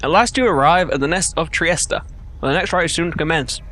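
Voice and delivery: talking around an ice cube; words slurred by ice in mouth. Real, not acted. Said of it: "I have ice in my mouth".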